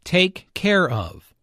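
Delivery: "Take care of" said slowly and clearly; slow clear demo. Shown as a demonstration. Teacher presenting the phrase slowly and clearly. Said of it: "This phrase is used with animals".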